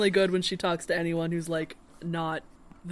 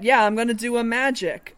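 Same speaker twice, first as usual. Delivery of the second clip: put-on adult faking child voice; 3 semitones higher, 6 dB louder than usual. Child voice retold.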